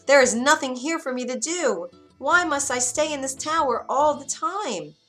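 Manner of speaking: high, loud protest; complaining girl. Acted. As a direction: plead against being shut in. Rapunzel complains to the witch.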